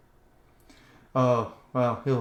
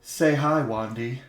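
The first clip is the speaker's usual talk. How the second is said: cruel mock cheer. Rider cruelly shows the skulls to Aaron, mock cheerful. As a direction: show off the skulls gleefully. Draco presents skulls mockingly.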